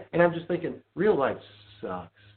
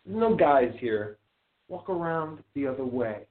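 firm retold rebuke; 2 semitones higher, slower than usual. Retold confrontation with a customer.

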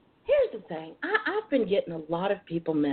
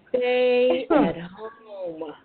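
stern scolding; 4 dB louder, much slower than usual. Real, not acted. Scolding listeners, drawn out.

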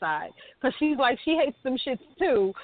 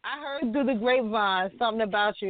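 teasing; 2 semitones lower than usual. Acted. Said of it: "I gotta throw you under the bus".

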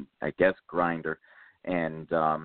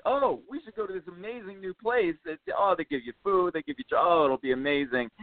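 mock excitement; 9 semitones higher than usual. Mock enthusiastic invitation.

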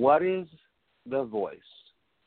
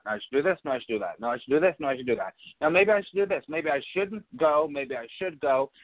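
monkey mind chatter; 3 semitones higher, much faster than usual. Retold or imitated. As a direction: rattle through the doubts like an anxious inner voice. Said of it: "this constant thing in the monkey mind".

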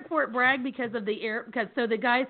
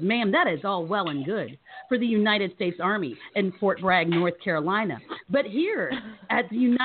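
formal gate guard; 3 semitones lower than usual. Retold or imitated. Acting out stern gate guard.

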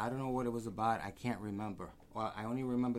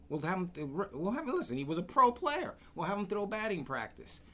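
mild pleading; 7 semitones higher than usual. Retold or imitated. Billy speaking up for Ray.

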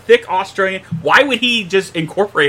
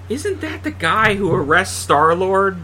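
imitating a friend. Predicting a friend's question leaving the cinema, lightly imitated. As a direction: draw the question out as a teasing imitation. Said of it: "Gene's gonna go".

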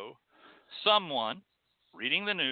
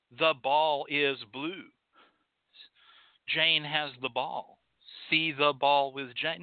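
put-on slow, plodding, sing-song reading of a child's first reader; a teacher slowly sounding out a beginner's book; mock primer reading; 3 semitones lower, slower than usual. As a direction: read it like a children's primer, word by word.

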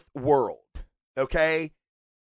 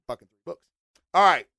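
ordinary delivery

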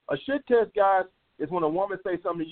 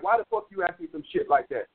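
higher-pitched, indignant comeback; mock agitated; 6 semitones higher than usual. Man wrongly rising to a woman's test, mock agitated. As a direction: act riled up without really shouting. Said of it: "You don't start getting agitated".

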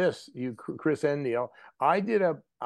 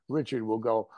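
normal talking voice

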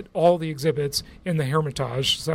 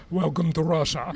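put-on Russian accent. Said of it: "exactly like that".

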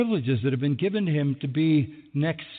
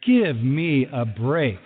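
exasperated Peter; 4 semitones lower, much slower than usual. Retold or imitated.

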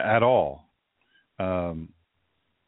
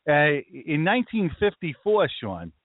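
put-on higher-pitched Brooklyn Jewish accent; 4 semitones higher than usual. Explaining history to Sean, in a Brooklyn Jewish accent. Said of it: "this is the accent that I think in".

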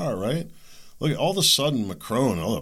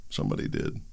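whispered, much softer and lower; whispered aside; 12 semitones lower, 7 dB quieter, faster than usual. Real, not acted. Commentator repeating his point in a hushed whisper. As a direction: drop to a knowing whisper.

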